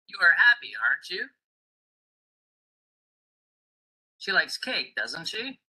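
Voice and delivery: statement, then tag climbing: "aren't you?", "doesn't she?"; rising question tags. Shown as a demonstration. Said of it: "sound also rises for question tags".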